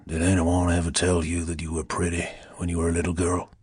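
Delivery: low, velvety Southern whisper; velvet whisper. A narrator's reading. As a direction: purr it in a whisper, honeyed and low. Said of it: "they were a velvet whisper".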